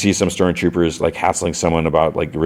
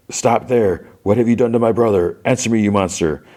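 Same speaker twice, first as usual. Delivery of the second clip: mildly acted outrage, pitched up; indignant demand; 5 semitones higher than usual. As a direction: confront a villain in a higher, urgent voice. Young Maul confronts his master.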